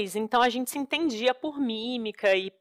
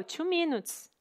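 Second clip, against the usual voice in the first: imitating Indian English; 7 semitones higher, 7 dB quieter, slower than usual. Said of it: "eu falei pro Daniel".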